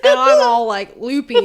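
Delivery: laughing. Real, not acted. Joke told through laughter.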